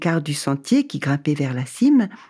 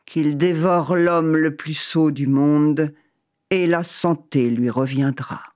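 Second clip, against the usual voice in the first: voice of God. Acted. God answers.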